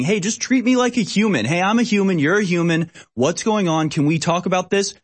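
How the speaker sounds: half-hearted imitation of a man begging police; imitated begging. Host imitating arrested man begging officers, mock pleading. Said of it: "he's literally just begging".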